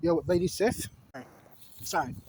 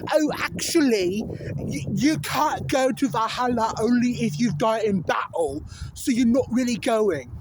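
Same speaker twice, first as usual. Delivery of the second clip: smug correction; 3 semitones higher, 4 dB louder than usual. Retold or imitated. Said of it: "and you go".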